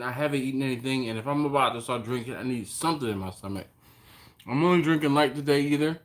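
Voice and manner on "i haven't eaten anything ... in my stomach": talking while eating; words round a bite of food; mouth full. Real, not acted. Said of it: "I really do apologize for eating".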